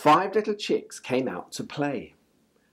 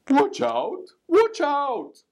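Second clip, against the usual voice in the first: scary voice; 11 semitones higher, 4 dB louder, slower than usual. A narrator's reading. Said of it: "a scary voice cried".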